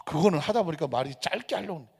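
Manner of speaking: usual speaking voice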